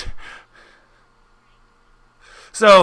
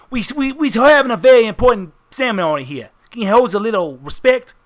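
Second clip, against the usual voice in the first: exaggerated henchman; 5 semitones higher than usual. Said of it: "he's doing the very exaggerated".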